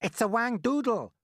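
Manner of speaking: high, loud alarmed yell. A narrator's reading. Fire chief naming the monster, yelling. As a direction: yell out your rival guess. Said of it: "yelled the head of the fire department".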